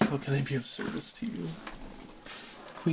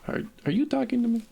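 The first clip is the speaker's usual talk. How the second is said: startled; 10 semitones higher, 4 dB louder, faster than usual. Acted. Player reads startled dialogue line.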